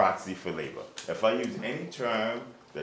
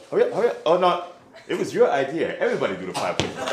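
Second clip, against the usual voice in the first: drill sergeant; 10 semitones higher, 11 dB louder than usual. Real, not acted. Teacher driving push-ups, loud.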